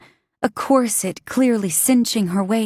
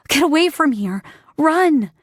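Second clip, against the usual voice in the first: urgent warning; 5 semitones higher than usual. Acted. Warning the girl.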